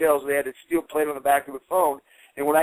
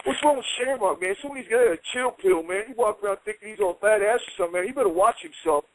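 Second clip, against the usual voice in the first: higher mocking trash talk; mocking taunt; 5 semitones higher than usual. Knobs mocking Shamrock to twenty boys, higher. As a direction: sneer at him behind his back. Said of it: "I hear this guy go".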